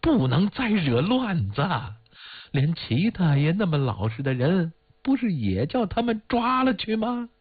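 put-on urgent, high-pitched plea from an old woman; anxious warning. A narrator's reading. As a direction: warn them anxiously, voice climbing. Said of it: "马老太太着急地说".

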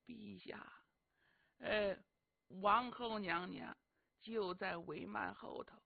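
压低声音贴着耳朵说; 凑到皇帝耳根底下悄悄禀报; 轻声耳语. Acted. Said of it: "轻声说". (宦官贴耳向陛下悄声禀报，压得很低)

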